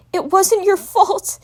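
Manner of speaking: high, slow emphatic cry; shouting. Acted. Twilight shouting over the bawling dragon. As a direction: insist firmly over his sobs. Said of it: "shouted Twilight".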